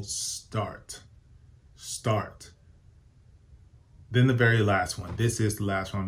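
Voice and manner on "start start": a soft, breathy whispered start; a hushed whispered push to begin; whispered urging. Real, not acted. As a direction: whisper it like a nudge. Urging viewers to begin saving.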